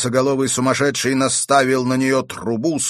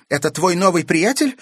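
higher, louder displeased question; 9 semitones higher, 5 dB louder than usual. A narrator's reading. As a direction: ask it with open displeasure. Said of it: "с недовольством спросила она". (недовольный вопрос)

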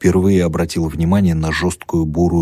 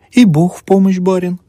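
sweetly tender; 13 semitones higher, 6 dB louder than usual. A narrator's reading. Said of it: "лелейно поклонилась старуха".

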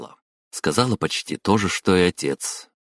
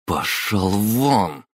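сквозь зубы; 5 semitones higher, much slower than usual. A narrator's reading. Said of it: "процедила Хатару".

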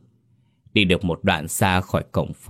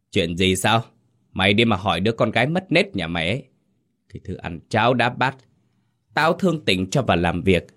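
scolding. Acted. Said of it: "mà mắng".

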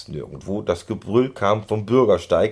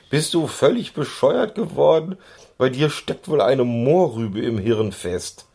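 higher, scolding tone; 6 semitones higher, 4 dB louder than usual. A narrator's reading. Pony scolding Schoko for splashing, higher. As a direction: scold your reckless friend. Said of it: "schimpfte Keks neben ihm".

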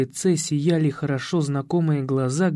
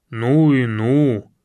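slow, low, loud tut-tutting; reproachful; 3 semitones lower, 5 dB louder, much slower than usual. A narrator's reading. Coach reproaches the careless mother, slow and disapproving. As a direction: drag it out in disapproval. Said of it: "укорил Ершов".

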